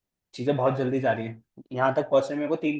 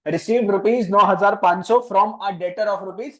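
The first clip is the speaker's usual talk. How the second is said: slow, word by word, a little louder; slow dictation; 4 semitones higher, 4 dB louder, much slower than usual. Shown as a demonstration. Teacher dictating the journal entry slowly for a new student. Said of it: "नया बच्चा ना भाई, बोलना पड़ता है".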